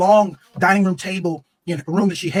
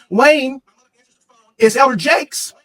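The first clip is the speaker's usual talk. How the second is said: mother calling out; 5 semitones higher, 4 dB louder, slower than usual. Retold or imitated. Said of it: "she says to me".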